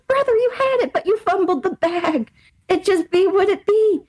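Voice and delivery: high, teary mock lament. Telling the ex he fumbled, mock-teary and high. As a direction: wail it like a fake-sad friend.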